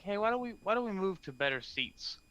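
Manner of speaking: high-pitched, casual coaxing; coaxing suggestion. Acted. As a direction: lift the voice high to coax someone along. Coaxing the princess away.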